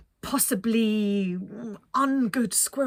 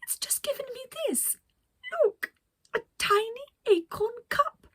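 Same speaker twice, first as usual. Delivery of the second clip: delighted; 4 dB louder than usual. Acted. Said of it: "looking delighted".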